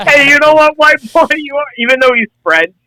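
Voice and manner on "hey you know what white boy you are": high voice breaking into laughter; giggling mock Miyamoto line; laughing Miyamoto impression. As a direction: squeak the quote out through laughter. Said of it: "Miyamoto's like".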